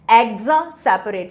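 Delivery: "exa, separate" said as two pieces, loud "exa"; split in parts. Shown as a demonstration. Teacher splitting a word for students to remember, "exa, separate" in two parts. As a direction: break it into "exa", then "separate". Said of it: "ये अलग निकालो".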